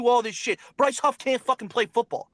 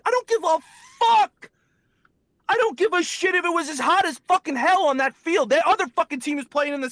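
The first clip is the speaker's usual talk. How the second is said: furious rant; 5 semitones higher than usual. Real, not acted. Fan ranting at players, furious shout. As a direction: yell it out, fed up with excuses.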